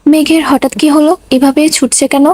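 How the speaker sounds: ordinary delivery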